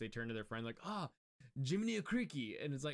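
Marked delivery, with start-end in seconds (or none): 0.8-2.6 put-on Japanese accent in a very high-pitched voice. Quoting someone who finally speaks enough English: Japanese accent. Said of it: "ever heard Jiminy Cricket said in a Japanese accent".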